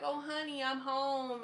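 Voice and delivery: high, sing-song mock homecoming; cheesy sitcom husband. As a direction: ham up the cheerful husband coming home.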